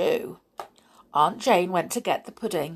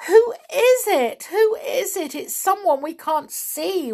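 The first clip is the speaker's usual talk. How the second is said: frightened weeping; 12 semitones higher, 4 dB louder than usual. A narrator's reading. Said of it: "wept Winnie".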